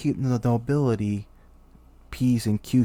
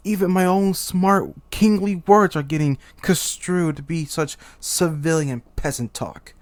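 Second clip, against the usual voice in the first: exasperated; 5 semitones higher, 4 dB louder than usual. Acted. Exasperated king bemoans his speech.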